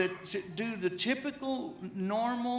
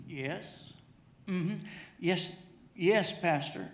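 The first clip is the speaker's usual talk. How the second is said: wife on the phone; slower than usual. Retold or imitated. Pastor pretending to be his wife, hushed on the phone. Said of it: "I overheard her talking like this".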